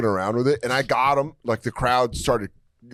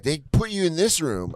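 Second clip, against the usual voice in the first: put-on drunk lady; 5 semitones higher than usual. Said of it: "this drunk lady walks up".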